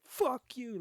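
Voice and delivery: angry shout. Retold or imitated. Man yelling back at the driver who honked, shouting. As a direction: throw it at him full force. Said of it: "I'm mad".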